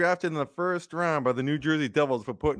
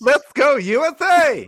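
put-on much higher and louder, a squeaky girly cheer; girliest voice; 12 dB louder, slower than usual. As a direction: shriek the chant like the mystery girly voice in the huddle. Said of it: "the girliest voice".

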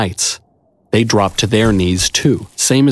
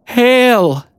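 very high, slow, awed knight voice; trembling whisper; 14 semitones higher than usual. A narrator's reading. Angelic young knight awed before his emperor, high and trembling. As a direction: tremble it out in awe, pitched high. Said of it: "in a trembling whisper".

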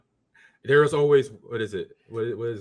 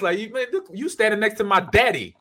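high-pitched cocky street talk, laughing; streetwise Luke; 10 semitones higher, 6 dB louder than usual. Retold or imitated. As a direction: tell the Emperor off like a brash bro. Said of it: "I'd be like".

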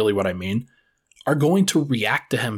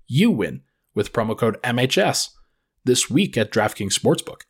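ad read. Acted.

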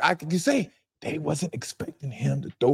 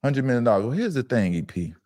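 a hint of a friendly, slick general manager; 4 semitones lower than usual. GM talking to a player asking for a hundred million, lightly corporate. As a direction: greet him warmly like a front-office boss, then hedge. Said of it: "Let me hear your G M voice one more time".

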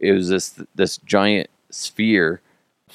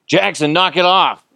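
mock yell; 11 semitones higher, 4 dB louder than usual. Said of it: "I'm like".

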